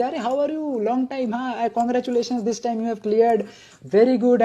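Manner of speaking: breezy mock-friendly doctor greeting; the smiling doctor who fails you anyway; cheerful doctor, laughing along. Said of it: "वो भी हंसे".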